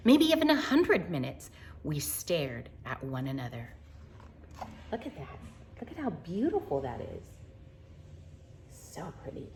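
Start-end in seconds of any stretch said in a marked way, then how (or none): 1.8-3.7 whisper. A narrator's reading. Silent watching of the owl. 5.1-9.5 whisper. Real, not acted. Awed at the picture.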